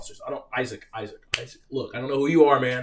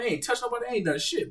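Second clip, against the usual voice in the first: ordinary delivery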